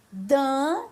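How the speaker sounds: Daniel broken into Dan, ni, el with pauses; Daniel in separate syllables for a beginning reader. Shown as a demonstration. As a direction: sound out Daniel slowly, piece by piece. Teacher builds word from syllables.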